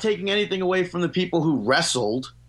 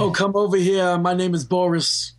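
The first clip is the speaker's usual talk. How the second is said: put-on old grandfather voice; 5 semitones higher than usual. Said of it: "You sound like a Jewish grandfather".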